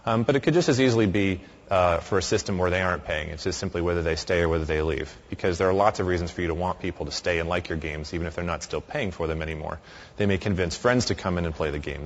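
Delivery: usual speaking voice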